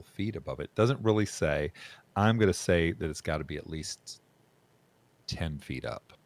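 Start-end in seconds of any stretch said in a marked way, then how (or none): none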